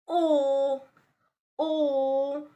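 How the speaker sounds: "O" held long with slightly rounded lips; rounded O sound. Shown as a demonstration. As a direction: round the lips lightly and hold "O". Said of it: "slightly round your lips".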